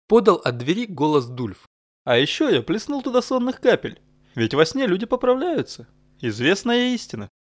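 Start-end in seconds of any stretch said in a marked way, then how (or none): 2.0-7.3 put-on high, pleased old retainer voice; Dulf the sly helper. Dulf boasting from the doorway about the sleeping drops, higher and smug. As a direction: confess the trick with smug cheer. Dulf's voice from the door.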